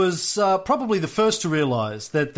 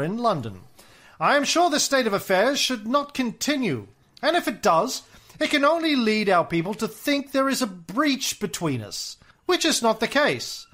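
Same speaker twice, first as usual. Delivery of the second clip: put-on Mid-Atlantic accent; 3 semitones higher than usual. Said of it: "my nineteen twenties, uh, American aristocrat, accent".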